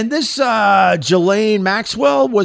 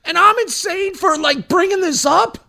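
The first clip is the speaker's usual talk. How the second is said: mock Trump; 11 semitones higher than usual. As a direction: parody the president wishing her well. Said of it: "he goes".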